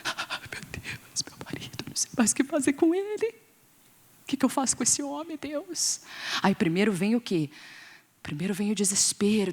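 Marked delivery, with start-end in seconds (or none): 0.0-6.0 mock despairing whisper to God; desperate whispered prayer. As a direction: whisper it like a desperate wife praying. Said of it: "No desespero". (oração sussurrada e desesperada de esposa)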